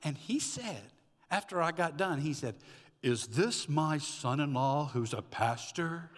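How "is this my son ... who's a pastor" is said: slow, measured question in another man's voice; slow, pointed imitation of an in-law; disbelieving father-in-law. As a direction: ask it slowly, as a taken-aback father-in-law. Father-in-law's stunned question, acted.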